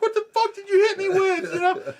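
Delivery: high, loud, incredulous shout; hammed-up shrieked question; outraged disbelief. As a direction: yell it as a bewildered victim demanding answers. Retold robber's question, acted again.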